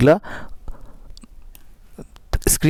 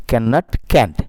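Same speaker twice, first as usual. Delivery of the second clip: usual speaking voice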